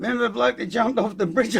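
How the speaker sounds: can barely get the line out for laughing; laughing through it. Retold or imitated. Retelling the surprise reveal.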